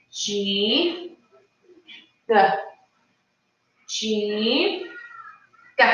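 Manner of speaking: hard "G" sound repeated clearly; over enunciating. Shown as a demonstration. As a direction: drill "G" from the back of the throat. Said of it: "We're gonna practice it".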